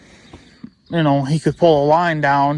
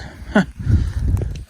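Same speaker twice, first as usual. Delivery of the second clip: exasperated laugh. Real, not acted. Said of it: "I'm so mad I can't even talk".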